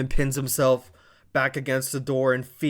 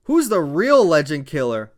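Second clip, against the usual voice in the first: Logan Paul brag; 6 semitones higher, 5 dB louder than usual. Retold or imitated. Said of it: "he's talking to the fans".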